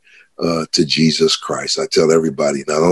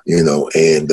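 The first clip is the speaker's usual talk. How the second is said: ordinary delivery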